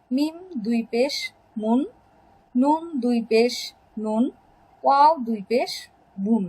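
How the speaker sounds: chunked recitation, a pause before each কুন, লুন, মুন, নুন; name the letter and দুই পেশ, pause, then sound the syllable like লুন; teacher modelling কুন, লুন, মুন, নুন, বুন piece by piece; pronunciation drill. Shown as a demonstration. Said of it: "উচ্চারণ করতে হয়".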